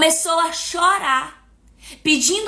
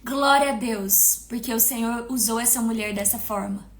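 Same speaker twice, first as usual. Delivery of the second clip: retold prayer; 4 semitones lower, 5 dB quieter than usual. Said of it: "Eu comecei a dizer".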